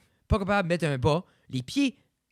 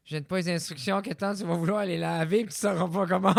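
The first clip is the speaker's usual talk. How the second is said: Tina impression; 2 semitones higher than usual. Recalling a friend's voice about washing instructions, lightly imitated. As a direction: do a playful impression of someone nagging about instructions. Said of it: "j'entendais la voix de Tina".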